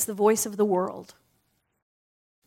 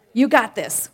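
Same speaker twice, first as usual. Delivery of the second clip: louder, encouraging cheer; inner cheerleader; 6 dB louder than usual. Pretend. Speaker voicing the inner cheerleader to the audience, loudly. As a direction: call it out like a cheerleader. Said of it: "what does the inner cheerleader say".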